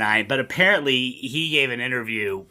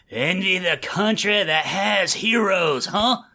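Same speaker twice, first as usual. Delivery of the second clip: a hint of overwrought movie delivery; half-hearted imitation of a hammy line read; mock McConaughey drama; 3 semitones higher than usual. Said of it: "he is all in on that fucking line".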